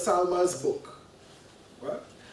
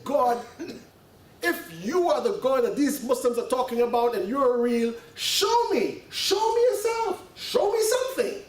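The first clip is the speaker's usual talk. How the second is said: retold plea to God, rising much higher at the end; pleading prayer; 3 semitones higher than usual. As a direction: build to a high-pitched, imploring "show me". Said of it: "he's crying".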